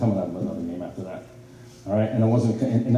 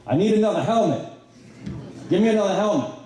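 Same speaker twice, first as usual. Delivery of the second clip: higher, matter-of-fact demand; Ricky demanding; 9 semitones higher than usual. Retold or imitated. Bloodied Ricky asking the sideline for a helmet, higher and casual. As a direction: ask for a new helmet like it's nothing. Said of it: "and goes".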